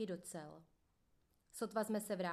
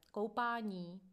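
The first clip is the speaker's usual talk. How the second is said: a mildly louder barked call down the corridor; guard's yell; 4 dB louder, slower than usual. Acted. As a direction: call out "Koupání!" like a prison guard, not full force. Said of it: "bachař řve".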